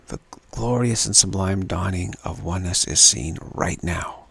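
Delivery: "right" leaned on, "now" falling away; stress on right now. Shown as a demonstration. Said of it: "an emphasis on right now".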